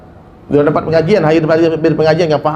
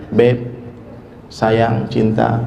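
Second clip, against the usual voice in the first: sweet pet names; 6 semitones lower, 4 dB quieter, much slower than usual. Shown as a demonstration. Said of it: "panggilan kesayangan".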